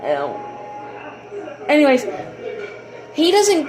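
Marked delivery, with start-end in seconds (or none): 0.0-1.7 breathless pained whisper. Real, not acted. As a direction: hiss of pain after the stub. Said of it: "I stubbed my toe".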